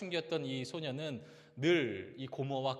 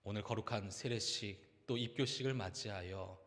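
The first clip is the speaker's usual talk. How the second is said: prayer. Acted. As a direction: lead the church in prayer. Closing prayer. (느리고 경건한 기도)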